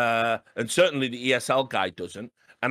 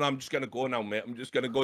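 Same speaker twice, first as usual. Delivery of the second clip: quieter, backing away sheepishly; sheepish mutter; 6 dB quieter, faster than usual. Retold or imitated. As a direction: mumble it, wanting to leave. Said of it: "And I'm going".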